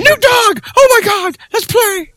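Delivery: squeaky, very high, loud puppy voice; giddy dog meeting a new friend, very high; excited dog voice. Pretend. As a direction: voice the dog bouncing with joy. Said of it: "It's like".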